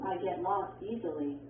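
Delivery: statement tune, falling on "easily"; falling intonation. Shown as a demonstration. Textbook example of a statement, falling intonation. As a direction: let the voice drop at the end of "easily". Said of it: "arrows that show falling intonation".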